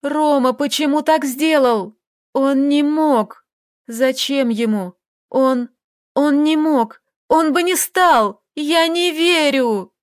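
put-on desperate girl refusing to believe Roma's betrayal; distraught outburst. A narrator's reading.

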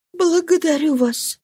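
frightened wife begging her husband; Marie, pleading. A narrator's reading. Marie's voice in the reading.

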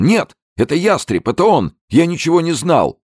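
very high, loud tearful pleading; the businessman tearfully shifts the blame; hysterical crying denial. A narrator's reading. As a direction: blurt it out sobbing in terror. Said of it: "Зельдин плакал".

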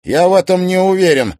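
fast defiant retort; snapping back. Acted. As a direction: snap it back. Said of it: "огрызнулся Тимофей".

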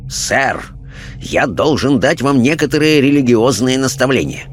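lightly voiced preachy parson, animated lilt; indignant clergyman. Clergyman instructing his questioners on religion, indignant. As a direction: lecture like an affronted churchman.

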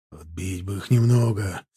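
mild shout, building from low; called out. A narrator's reading. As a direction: call to a fellow rider, restrained. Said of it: "крикнул скачущий рядом".

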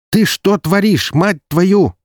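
high, loud furious yell; angry brother shouting over the phone. Acted. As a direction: bellow it down the phone at him. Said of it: "заорал из динамика голос Максима".

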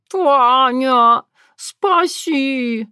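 high choked wheeze of a scared cat; hoarse strained whisper. A narrator's reading. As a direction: rasp out a desperate plea. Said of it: "просипел Терентий сдавленным шёпотом".

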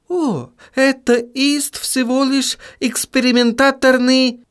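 put-on high German-accented vampire voice; evasive, in a German accent. A narrator's reading. Otto's accented voice.

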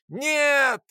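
high, loud cry of protest; shout. A narrator's reading. Boy screaming as Lora falls below, loud cry. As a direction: yell it out as the hatch opens. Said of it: "закричал я".

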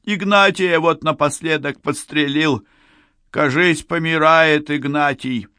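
high-pitched, urgent character voice; winded bandit reporting. A narrator's reading. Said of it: "запыхавшись, сообщил один".

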